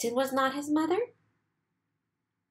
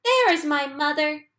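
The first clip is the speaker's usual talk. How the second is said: excited chick; 6 semitones higher, 6 dB louder than usual. A narrator's reading. Chick sees the big thing.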